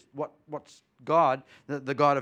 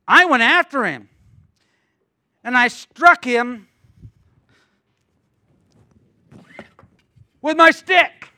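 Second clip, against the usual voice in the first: high, loud triumphant telling; a preacher booming David's boast; 7 semitones higher, 11 dB louder, slower than usual. Acted. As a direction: shout it out like a proud shepherd.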